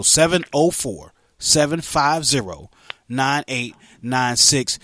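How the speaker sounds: phone number in slow, separated groups. Shown as a demonstration. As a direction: read out the number slowly, pausing between groups. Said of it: "I need to slow down".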